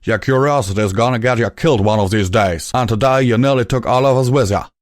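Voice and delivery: mild angry stallion; angry scolding. A narrator's reading. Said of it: "growled back angrily".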